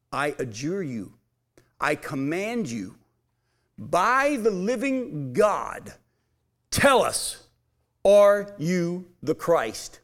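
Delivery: a hint of a stern interrogator, slow. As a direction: slowly press him for an answer. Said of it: "The high priest says to Jesus".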